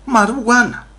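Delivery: high, separated "Μαρού γουάνα"; mock marijuana. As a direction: echo the officer, breaking it into "Μαρού" and "γουάνα". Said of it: "Λέω μου".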